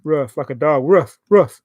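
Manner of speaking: "rough" with a short uh vowel, like a dog's bark; northern rough. Shown as a demonstration. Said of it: "Northern people say rough".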